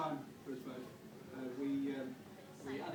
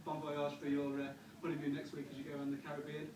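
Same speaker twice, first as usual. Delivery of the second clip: wedding toast speech; 2 semitones lower than usual. Acted. Best man's toast.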